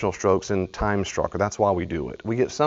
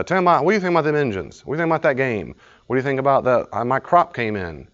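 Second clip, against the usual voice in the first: quick, higher casual chatter; chatty small talk; 4 semitones higher than usual. Retold or imitated. Coworker at the water cooler, quick and chatty. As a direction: chat idly to fill time.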